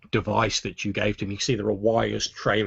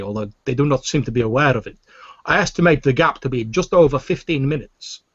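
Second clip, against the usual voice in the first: higher, louder obsequious alien voice; Weequay alien voice; 4 semitones higher, 6 dB louder than usual. Acted. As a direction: fawn over the lords in a raised alien voice. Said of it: "the Weequay's voice says".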